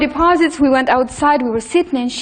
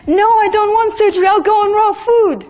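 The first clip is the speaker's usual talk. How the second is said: defiant refusal; 9 semitones higher, 4 dB louder, faster than usual. Retold or imitated. Husband refuses surgery, retold.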